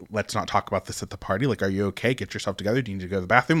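mock him hushing her in control mode; lightly voiced husband taking charge; controlling husband. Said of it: "go into control mode".

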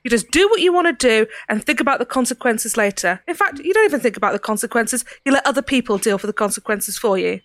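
soft Cockney lecture, lightly voiced; a light Cockney dressing-down. Ceridwen lecturing the prisoner, soft Cockney. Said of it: "A soft Cockney accent".

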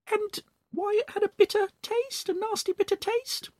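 Mrs Twit gloating. Acted. Mrs Twit teasing her husband after the meal, high gloating voice. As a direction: dangle the secret with glee.

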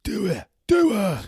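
high, loud joking "do her"; mock egging on. Mate egging on a friend, loud joking shout. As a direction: urge him on in jest.

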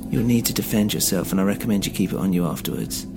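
lightly voiced Polish accent; thick Polish accent. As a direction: speak with a faint Polish accent. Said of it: "with a thick Polish accent".

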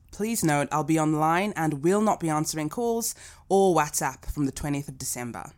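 blended Australian accent reading a notice. Shown as a demonstration. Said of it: "Flex meets Rowie Singh".

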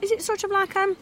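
curious and delighted; delighted surprise. Real, not acted. Lifting the lid on pudding.

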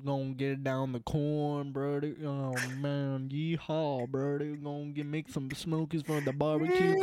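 playful stereotypical Southern farmhand; Southern accent. Pretend. Telling of young Jimmy working down on the farm, mock Southern accent. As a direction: ramble in a put-on Southern accent. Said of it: "the stupid Southern bullshit".

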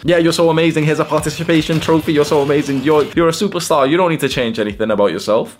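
high, loud, over-encouraging voice; mock gushing praise. Society telling little boys and girls they're amazing, mock gushing.

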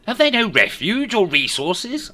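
Scrooge voice. A narrator's reading.

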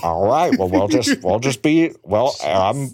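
lightly voiced Peter Griffin from Family Guy; a hint of a cartoon dad greeting listeners; Peter Griffin impression. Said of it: "What is this voice?".

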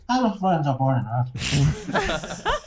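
put-on high-pitched comic Indian accent, drawn out at the end. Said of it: "I can't do an Indian accent".

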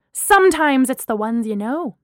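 loud, unrestrained outburst; shrieking. Acted. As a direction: cry it out, unfettered. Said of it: "Danny shrieked, unfettered".

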